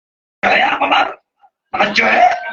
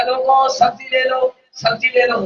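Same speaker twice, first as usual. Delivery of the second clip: vendor calling out; 3 semitones higher than usual. Acted. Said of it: "کھڑا ہوا کہنے لگا".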